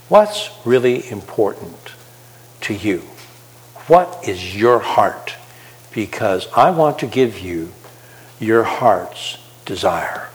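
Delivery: slow, soft, gentle asking; tender invitation. Acted. Jesus gently asking the listener, slow and soft. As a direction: speak it slowly and softly as Jesus inviting.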